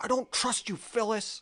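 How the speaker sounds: very high, half-hearted, light background yell. Retelling a favorite line from The Office: imitating Andy shouting. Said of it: "you can hear Andy just shouting".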